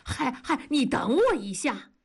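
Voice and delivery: calling after a friend. A narrator's reading. Worker calls out to leaving friend, calling. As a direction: shout for him to wait. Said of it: "大庄在后面喊".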